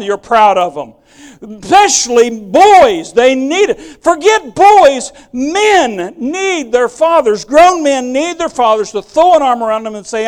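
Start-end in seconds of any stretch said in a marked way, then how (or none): 1.4-10.3 climactic preaching. Acted. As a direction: build the plea to its peak.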